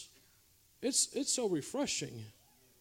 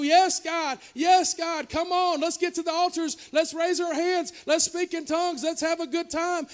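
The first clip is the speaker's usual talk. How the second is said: eager churchgoer; 8 semitones higher, 6 dB louder than usual. Retold or imitated. Congregation voiced, eager response.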